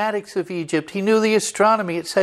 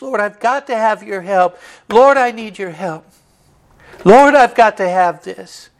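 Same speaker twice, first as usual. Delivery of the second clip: pleading that builds to a loud cry; preacher acting out a desperate prayer to the Lord; 2 semitones higher, 4 dB louder than usual. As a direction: beg harder with every line, loudest at the end. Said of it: "acting like".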